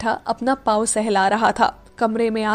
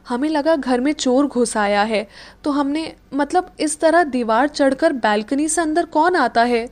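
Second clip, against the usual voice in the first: innocently; 2 semitones higher than usual. Acted. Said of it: "Meera ने मासूमियत से कहा".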